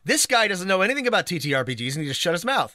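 fast, hammy gatekeeper sneer; mock gatekeeper rant. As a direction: sneer like a snobby gamer.

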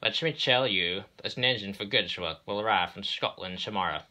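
lightly voiced boss with slushy s; authoritative railway boss. Railway boss tells engines of new arrival, authoritative. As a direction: announce it firmly, s sounds slurred to sh.

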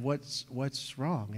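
soft, very slow, half-asleep; sleepy gentle question. Retold or imitated. Dad to the three-year-old at night, soft and sleepy. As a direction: ask gently as if just woken. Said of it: "and I said".

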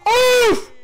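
sharp, very high shouted gasp; startled cry. Real, not acted. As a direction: cry out at the near miss. Near miss in the match.

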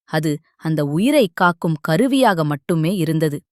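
a hint of a meek, serene disciple; humble reply. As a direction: answer the master with calm humility. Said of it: "Poongundran பணிவாகச் சொன்னான்".

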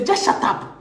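"just shut up" breathed out low and soft; almost whisper it, dismissive; hushed, scornful shut up. Real, not acted. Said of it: "if you don't have anything to say".

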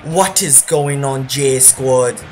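greeting in a light African accent. Real, not acted. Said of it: "why am I speaking in an African accent?".

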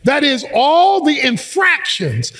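emphatic scripture preaching, phrase by phrase; fervent preacher expounding a verse; forceful preaching. Real, not acted. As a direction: drive each point home to the congregation.

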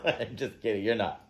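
soft take-back. Real, not acted. Takes back the insult after laughing.

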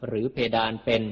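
ordinary delivery

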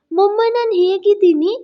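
put-on excited child. A narrator's reading. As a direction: ask mummy like a thrilled small boy.

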